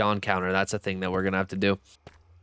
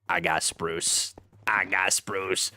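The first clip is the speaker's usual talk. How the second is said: hushed; 4 semitones lower, 3 dB quieter, slower than usual. Real, not acted. Repeating find quietly.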